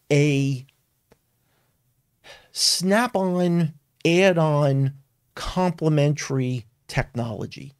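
"snap-on", "add-on", "complementary technology" set apart by pauses; emphatic. Real, not acted. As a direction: spell out "snap-on, add-on" deliberately, item by item. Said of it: "I would emphasize this".

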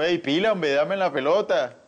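shouting for the ball on the pitch; a loud call to teammates. Retold or imitated. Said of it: "como no sabía hablar turco". (gritando a los compañeros)

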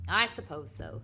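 lightly acted gloomy assent; understated glum husband; doleful. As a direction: agree with a touch of woe. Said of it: "said Mister Carmody dolefully".

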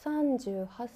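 eerie muttering. Retold or imitated. Ghost woman mumbling to herself in the lift, eerie slow. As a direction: recite it like a trance, slowly. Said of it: "なんかブツブツブツブツ".

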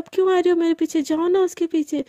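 fast, sulking jealous retort; sulky retort. Acted. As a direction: snap back at her, jealous and hurt. Jealous friend snaps back.

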